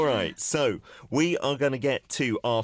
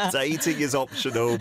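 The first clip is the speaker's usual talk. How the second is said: laughing; 2 semitones higher than usual. Real, not acted. Laughing while repeating lyric.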